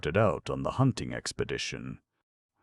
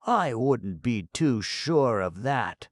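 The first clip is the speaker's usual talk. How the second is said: put-on muttering goat girl; 8 semitones higher, 6 dB louder, slower than usual. A narrator's reading. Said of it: "muttered the goat girl".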